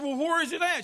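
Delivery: retold angry question.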